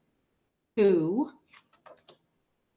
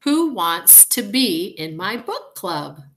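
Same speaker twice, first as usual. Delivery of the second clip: calling out; 2 semitones higher, 8 dB louder, slower than usual. A narrator's reading. Anna calling out to everyone.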